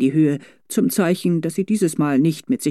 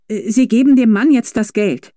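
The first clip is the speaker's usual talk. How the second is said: touch of doubt; 6 semitones higher, 6 dB louder than usual. A narrator's reading. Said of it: "mit einer Stimme, in der ein leichter Zweifel nachhallte".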